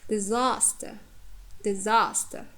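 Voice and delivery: "disaster" with a long stressed "sas"; careful demo of "disaster", strong second syllable; stress on penultimate. Shown as a demonstration. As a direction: lengthen the middle vowel of "disaster". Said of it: "or long vowels".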